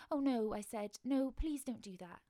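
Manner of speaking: loud panicky begging; frightened plea. Acted. Child begging Mister Krabs not to eat her, loud frightened plea. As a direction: beg him to stop, voice up and loud.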